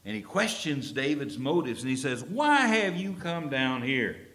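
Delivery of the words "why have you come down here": angry accusation. Retold or imitated. Eliab furiously confronting David at the battle lines, angry shout. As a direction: demand it furiously of a younger brother. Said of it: "He burns with anger".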